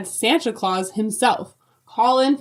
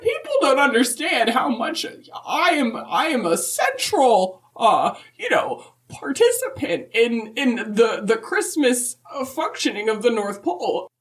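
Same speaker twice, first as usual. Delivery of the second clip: put-on higher, sweet old lady voice; Mrs Claus voice; 3 semitones higher than usual. Answering the podcast hosts as Mrs Claus, higher and sweet. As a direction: play a chirpy grandmotherly Mrs Claus.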